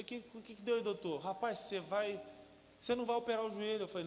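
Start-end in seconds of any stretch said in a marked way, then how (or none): 0.0-1.2 high, louder nervous question; injured player asking doctor for results; anxious question. Retold or imitated. 1.2-3.8 louder, fast doctor's announcement; doctor telling the player he won't need surgery; emphatic doctor. Retold or imitated. Doctor's news voiced.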